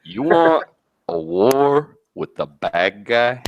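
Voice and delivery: slow, drawn-out heel promo; mock tough-guy promo to the fans; wrestling promo voice. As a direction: lecture them like a wrestling bad guy. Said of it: "let me put it down to 'em just like this".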